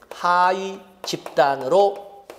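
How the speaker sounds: 하위 집단으로 said very slowly, word by word; 하위 집단으로 천천히 또박또박; slow emphasis. Shown as a demonstration. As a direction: spell out 하위 집단으로 slowly for note-taking.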